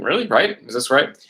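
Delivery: "Really?" and "Right?" lifted as checking questions; questioning. Shown as a demonstration. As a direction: seek confirmation, rising at the end. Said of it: "So that's like saying".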